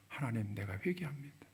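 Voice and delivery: soft, near-whispered prayer; hushed repentance. Retold or imitated. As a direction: confess quietly to God, barely voiced. (속삭이듯 나직한 회개 기도)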